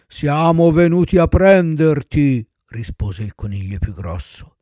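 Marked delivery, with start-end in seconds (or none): 0.1-2.5 ominous rabbit. Acted. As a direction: draw it out like a doom-bringer. Black rabbit announces Pinocchio's death. (becchino lugubre e lento)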